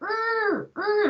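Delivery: "U" squeezed in the throat, repeated separately; E pushed back with throat pressure to make "U"; pressed vowel. Shown as a demonstration. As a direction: press the sound inside on each "U". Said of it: "like pressing sound".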